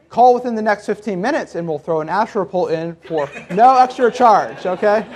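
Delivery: light TV pitchman voice; infomercial voice. Pretend. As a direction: sell it like a late night ad. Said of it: "sound like a commercial to you".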